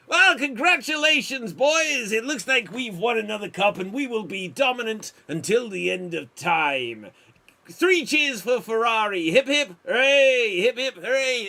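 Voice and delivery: put-on racing boss toasting his Ferrari team in a jumbled accent; mixed accent. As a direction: cheer the team on in a hammed-up accent of all kinds. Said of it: "What accent were you going for".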